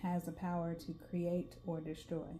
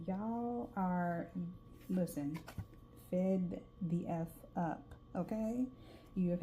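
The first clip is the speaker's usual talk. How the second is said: southern drawl; slower than usual. Real, not acted. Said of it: "my southern drawl is coming out".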